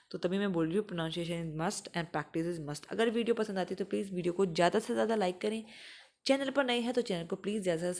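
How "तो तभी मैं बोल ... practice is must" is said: slow, each word stressed; teacher stresses the slogan; emphatic slogan. Shown as a demonstration. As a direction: drive the rule home. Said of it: "stressed teaching slogan".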